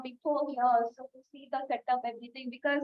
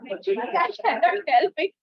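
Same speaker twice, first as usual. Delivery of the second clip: slow and deliberate, a bit louder; slow emphatic admission; 2 semitones higher, 6 dB louder, slower than usual. Real, not acted. Owning her habit before the meeting: slow, emphatic. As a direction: own it slowly, word by word. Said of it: "It is my hallmark".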